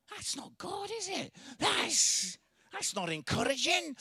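high-pitched mock indignation; comically affronted objection; indignant protest. Mock protest at his wife's suggestion.

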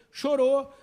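sudden loud high cry; exclamação alta. Real, not acted. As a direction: burst out the word. Sermon climax. (grito súbito e agudo)

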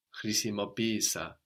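χρησιμοποίησα stressed on pí, third syllable from the end; accent on first E. Shown as a demonstration. Teacher confirming the accent, χρησιμοποίησα stressed on pí. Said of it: "the first one takes the accent".

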